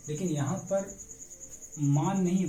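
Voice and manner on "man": मान with a long open "aa"; wrong vowel. Shown as a demonstration. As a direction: demonstrate the mistaken long आ in मान. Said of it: "बल्कि इसका उच्चारण है ऐ". (मान में आ वाला गलत उच्चारण)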